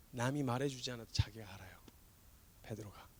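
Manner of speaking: a sermon's whispered aside. Real, not acted. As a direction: confide it quietly. Intimate point in sermon.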